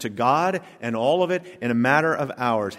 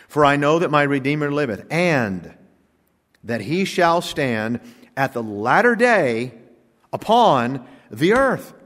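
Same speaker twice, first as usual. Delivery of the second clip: scripture reading. Acted. Preacher reads Job's verse to the congregation, solemn and fading. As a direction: read the verse reverently, letting it fall away.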